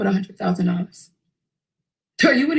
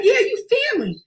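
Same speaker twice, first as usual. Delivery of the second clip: excited shout. Retold or imitated. Stranger hugs him, excited.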